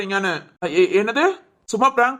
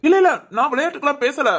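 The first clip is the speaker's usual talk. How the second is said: higher-pitched put-on outrage; mock-indignant accusation; feigned anger; 4 semitones higher than usual. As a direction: protest as if deeply insulted. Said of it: "எவ்வளவு கோபமா இருக்கேன்னு".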